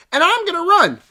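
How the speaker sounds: high, mocking heroic voice; hammed-up heroine declaring; mock heroic declaration. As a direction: ham it up like a foolish hero. Mocking Sydney's running decision.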